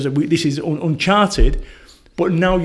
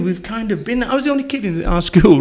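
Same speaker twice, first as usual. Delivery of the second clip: ordinary talk, nothing marked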